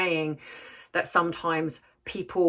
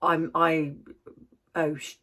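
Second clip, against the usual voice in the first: imitating a fearful doubt. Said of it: "a fear".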